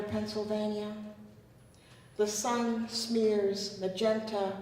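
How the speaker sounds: measured recital with deliberate pauses between images; poetry reading. Acted. Poet reading her poem to the audience, measured poetry reading. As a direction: read it as verse, lingering on phrases.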